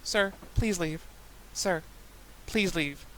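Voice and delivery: calm and steady; calm repetition. Retold or imitated. Repeating calmly to the yelling customer. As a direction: keep it level while he yells. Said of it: "standing there calmly".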